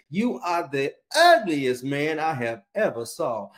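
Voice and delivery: slow, drawn-out insult; lightly voiced rude parrot. Parrot insulting a passing customer, slow and mocking. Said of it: "that parrot said to that man".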